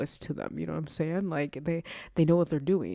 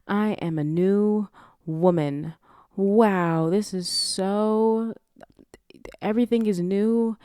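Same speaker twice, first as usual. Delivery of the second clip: high, drawn-out hammed-up awe; mock wonder; 6 semitones higher, 5 dB louder, slower than usual. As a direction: marvel theatrically, stretching the words slowly. Character's morning-after revelation, acted.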